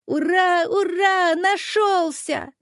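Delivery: put-on little boy cheering his found sled, high and slowing at the end; joyful cheer. A narrator's reading. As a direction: jump for joy as you cry it. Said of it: "запрыгал от радости".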